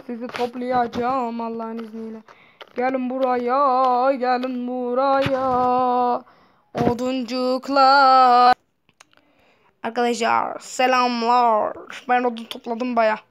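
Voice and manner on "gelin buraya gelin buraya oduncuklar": slow coaxing call. Pretend. Coaxing logs to come.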